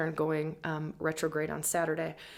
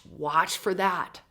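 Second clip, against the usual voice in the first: ordinary talk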